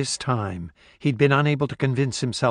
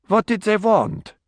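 frightened plea; 9 semitones higher than usual. Acted. Captive woman pleading with gunman.

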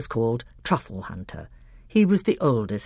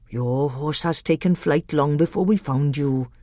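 husky earthy voice. Acted. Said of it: "a curiously husky, earthy voice".

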